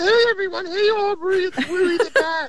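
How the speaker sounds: puppet voice pitched way up. Showing how the puppet Wooey the Bat speaks, Wooey the Bat puppet voice. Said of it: "he speaks like this".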